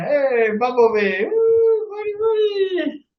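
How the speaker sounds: high, excited call-out. Real, not acted. Greeting a friend on camera, high excited whoop. Calling out playfully at start.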